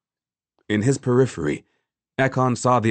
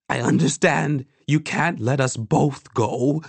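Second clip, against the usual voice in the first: higher voice projected to a crowd; declaring it out to those around; raised, carrying voice; 6 semitones higher than usual. A narrator's reading. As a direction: pitch it up so it carries. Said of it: "She raised her voice so that it would carry".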